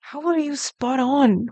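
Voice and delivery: can't believe they got it right; amazed disbelief. Real, not acted. Streamer stunned by a chat guess, slow amazed disbelief. Viewer guessed her languages exactly.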